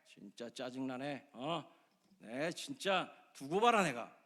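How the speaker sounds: slow, acted annoyance; angry grumbling. Unappreciated churchgoer fuming at home, slow angry grumble. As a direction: grumble it out slowly with resentment. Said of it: "이런 게 분노가".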